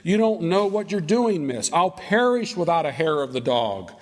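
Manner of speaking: high, drawn-out pleading that falls away on "miss"; acted-out wail of protest; pleading drunkard. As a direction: beg desperately through withdrawal pains. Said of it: "going through, uh, some withdrawal pains here, and he says".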